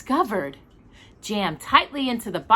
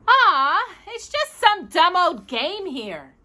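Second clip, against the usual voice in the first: scoffing; 10 semitones higher, slower than usual. Acted. Walter scoffs at the game.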